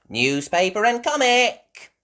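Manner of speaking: put-on high, loud child call. Peppa delivering to the dogs, high loud call.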